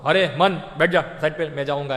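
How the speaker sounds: telling his mind off, loudly; firm scolding. Retold or imitated. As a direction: shove the mind aside.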